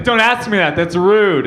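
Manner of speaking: high, indignant rebuke; mad dog owner. Retold or imitated. Angry dog lady to person behind in line, indignant. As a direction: scold the nosy stranger in mock outrage. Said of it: "so fucking mad".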